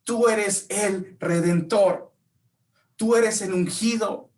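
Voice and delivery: slow, high, solemn declaring; reverent proclamation. Retold or imitated. Bartimeo declares who Jesus truly is, slow and reverent. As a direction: proclaim each title with awe. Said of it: "Lo que Bartimeo decía".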